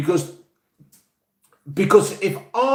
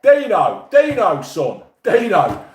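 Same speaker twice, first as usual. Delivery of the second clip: higher, louder hail, slowing on the last "son, Dino"; calling out; 5 semitones higher, 3 dB louder, slower than usual. Real, not acted. Host hails a listener, calling his name louder.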